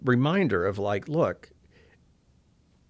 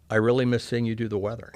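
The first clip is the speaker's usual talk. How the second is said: laughing through it. Real, not acted. Laughing at mistaken identity.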